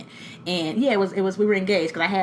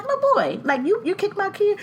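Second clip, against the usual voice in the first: put-on high-pitched questioning of a child; retold confrontation; 11 semitones higher than usual. Mother questioning boy in bouncy house, retold confrontation. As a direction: replay the challenge, voice pitched up.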